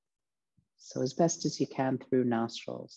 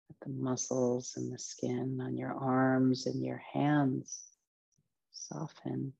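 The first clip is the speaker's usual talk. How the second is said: guided meditation. Acted. Teacher relaxing listeners from feet upward, guided meditation voice. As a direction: ease each body part into rest, phrase by phrase.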